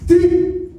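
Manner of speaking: hammed-up African accent, slow and halting; mock film elder with an overdone African accent; Forest Whitaker. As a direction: African accent with a high trilled burst. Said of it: "He in the movie like this".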